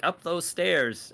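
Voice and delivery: high, drawn-out goblin command; little goblin attendant. Acted. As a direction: point the players onward in a high, slow goblin voice. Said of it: "He's like".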